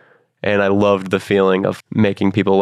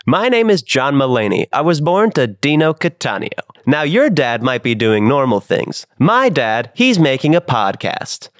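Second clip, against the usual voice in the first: higher, measured stand-up comedian voice; John Mulaney voice; 5 semitones higher than usual. Pretend. Host asks for a podcast intro, done as John Mulaney. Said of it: "that you wanna do in a Mulaney voice".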